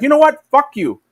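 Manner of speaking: hammed-up playground insult; mock angry retort. USA stand tells China off, mock angry. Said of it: "And the U S A is like".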